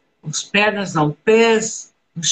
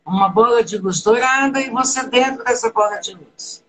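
guided meditation. Acted. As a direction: lead them gently into the breath. Guided visualization.

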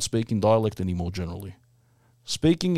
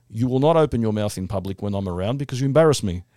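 scolding grandmother. Retold or imitated. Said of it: "my grandmother in Athens was saying".

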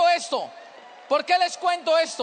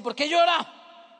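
lightly voiced stern country father; slow, drawn-out demand from a hard dad; tough father; 4 dB louder, much slower than usual. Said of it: "es de esos tipos que es duro, recio".

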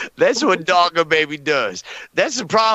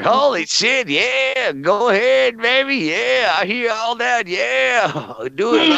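higher, hammed-up cheering on; mock cheering; 4 semitones higher, slower than usual. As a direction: egg them on in a playful high voice. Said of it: "I was like".

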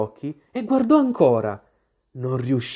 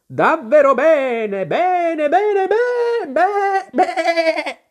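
building from a slow high cry to a much higher sheep's bleat, louder; rising into a bleat; 13 semitones higher, 5 dB louder, much slower than usual. A narrator's reading. Queen turning into a sheep, voice rising into a bleat. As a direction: let the voice climb until it becomes a sheep's baa. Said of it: "L'ultima parola terminò in un lungo belato".

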